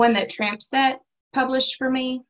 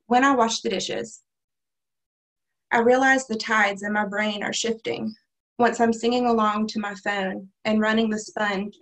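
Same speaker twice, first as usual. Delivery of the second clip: measured recital of a personal poem; poetry reading. Acted. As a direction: read it out line by line, deliberately. Reads own poem aloud.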